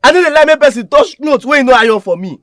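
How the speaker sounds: loud, heated complaint; angry rant. Acted. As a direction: vent the anger at the offender. Brother raging about his sister.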